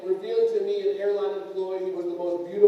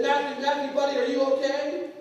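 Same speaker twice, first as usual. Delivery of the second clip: put-on higher, anxious checking on his child; worried dad; 7 semitones higher than usual. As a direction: imitate a concerned father rushing to his son. Worried father checks fallen son.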